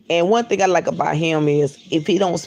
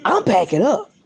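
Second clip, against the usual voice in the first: hurried exit; 7 semitones higher, 4 dB louder, slower than usual. Retold or imitated. Rushing out before the fight.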